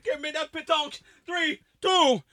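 high British voice counting down; high British accent; mock British accent. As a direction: Brit about to throw. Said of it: "accent britannique".

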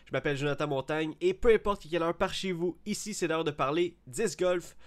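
grand, rolled-R announcer intro; hammy stage actor. Acted. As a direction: ham it up like a theatre host. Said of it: "on roule les airs à cette heure".

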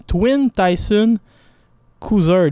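slow English boxing nickname with a Québécois French accent. Real, not acted. Sports pundit reading English nicknames, Québécois French accent. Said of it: "mon accent".

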